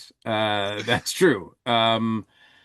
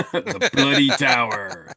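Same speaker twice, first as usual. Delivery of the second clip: ominous title read; 2 semitones higher, 3 dB louder than usual. Shown as a demonstration. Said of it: "is pretty dark and grim".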